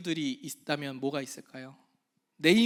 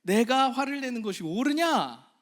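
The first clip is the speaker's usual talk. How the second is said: gentle question; 6 semitones higher, 5 dB louder than usual. Acted. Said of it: "질문하셨어요".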